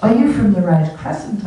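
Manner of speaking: lightly imitated Australian woman; a hint of Australian in a retold question; Australian accent. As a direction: put on a slight Australian accent. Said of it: "said to me in an Australian voice".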